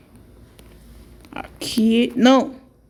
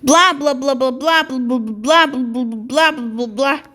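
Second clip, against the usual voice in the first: mock chatter; 2 semitones higher, slower than usual. Dolls making noise at night.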